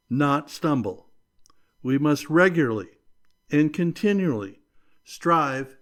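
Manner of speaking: ordinary talk, nothing marked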